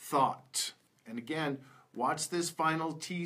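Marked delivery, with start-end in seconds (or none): 0.1-0.7 "thought" said carefully with the th at the start; th sound demo. Shown as a demonstration. Teacher models first word for learners, "thought" with initial th. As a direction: model "thought" alone, crisp initial th, falling tone. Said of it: "th sound can come at the beginning".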